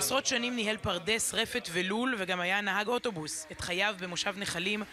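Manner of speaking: measured, restrained news-feature narration; documentary voice-over. Acted. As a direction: narrate a solemn memorial report, evenly. Recorded report narration voice-over.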